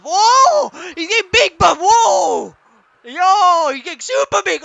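high, loud astonishment; amazed yelling. Real, not acted. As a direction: cry out as it swells before you. Bear swelling in the game.

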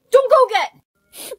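loud, high, drawn-out cry; high shout. Acted. Girl who can be seen after all, shouting.

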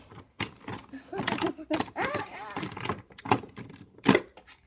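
long laugh climbing in pitch; play-villain cackle. Pretend. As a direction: laugh off a gloating farewell. Villain gloats after "So long.

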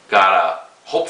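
speaking while puffing pipe; talking around a pipe. Real, not acted. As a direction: pipe stem between lips. Seen 2: Pipe at lips early and again from 2.0; away 1.0-1.7.

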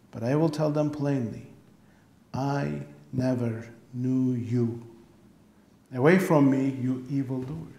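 solemn, weighty Bible reading; scripture reading. Acted. Pastor reading Matthew seven to the congregation, solemn. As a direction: read the words of Jesus with gravity. Reads scripture passage aloud.

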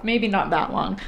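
quick whisper under breath; whispered aside. Real, not acted.

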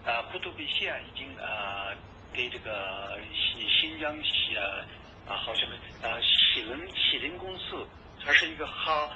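thin telephone line sound; over a landline phone. Real, not acted. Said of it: "这是通过电话啊录的音".

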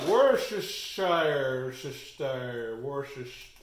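slow, drawn-out attempt at "Worcestershire"; sounding it out. Real, not acted. Host puzzling how to pronounce the sauce, sounding it out. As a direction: feel your way through "Worcestershire", stretching it. Stumbling over a hard word.

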